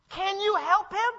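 a father crying out for his son; desperate father's plea. Retold or imitated. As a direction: beg as the frantic dad. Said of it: "Like, if I'm the dad".

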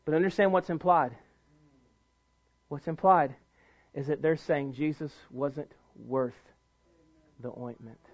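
low, soft voice, sinking away; hushed preaching. Real, not acted. Preacher revealing what the angry disciples implied, hushed. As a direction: drop down gravely and leave space before the end. Preacher drops to solemn hush.

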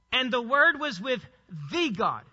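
pause, then "the" said as a full "thee" before "God"; stress on the article. Shown as a demonstration. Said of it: "Definite article, the God".

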